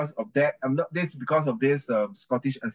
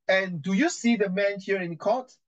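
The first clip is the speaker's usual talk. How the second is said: lightly acted judge, higher pitched; courtroom judge; 6 semitones higher than usual. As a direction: question the witness lightly as the judge. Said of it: "I'm the judge".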